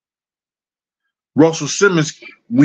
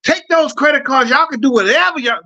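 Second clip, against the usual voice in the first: flamboyant guys, pitched way up and slowed; mock zesty voice; 12 semitones higher than usual. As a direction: guys on the stairs gushing about Russell, mock zesty voice. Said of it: "they would start talking like that".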